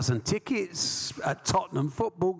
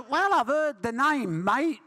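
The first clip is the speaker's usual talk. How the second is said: squeaky high Joe Bugner; 10 semitones higher, slower than usual. Retold or imitated. Bugner answering an unknown caller, squeaky high voice. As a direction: squeak it up like a big man with a tiny voice. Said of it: "he had a very high-pitched voice".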